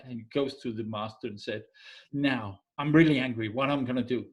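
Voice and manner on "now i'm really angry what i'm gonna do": retold anger. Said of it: "he's really, really mad".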